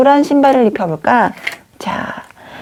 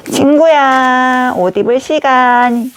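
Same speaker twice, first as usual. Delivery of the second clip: long drawn-out, higher call; playful calling out; 3 semitones higher, slower than usual. Pretend. Teacher tells the doll it's dressing time, playful call. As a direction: sing out to a pretend friend, stretching the name.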